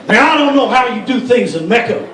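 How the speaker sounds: indignant politician in a hammed-up Arabic accent; speechify in a put-on Arabic accent; mock Arabic accent. Lawmaker debating women's modesty, mock Arabic accent. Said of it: "That's my Arabic accent".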